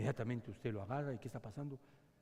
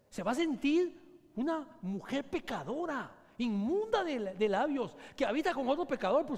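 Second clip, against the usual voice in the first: penitent wife; 11 semitones higher, 7 dB louder than usual. Acted. Acting repentant wife.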